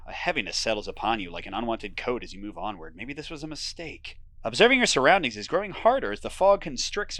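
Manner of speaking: steady storyteller read; moody game narration; story narration. A narrator's reading. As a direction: draw the listener into the fog. Narrates the fog walk.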